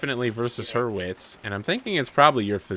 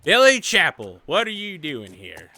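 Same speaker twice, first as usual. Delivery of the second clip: Annie's startled call; 4 semitones higher, 3 dB louder than usual. Acted. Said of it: "she's just like".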